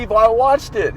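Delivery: put-on high, eager young man; excited guy voice. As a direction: quote him high and eager. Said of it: "He goes".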